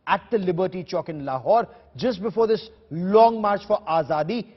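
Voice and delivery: measured news voiceover, words weighed; news report read. Acted. Anchor introducing a ground report in measured news voice.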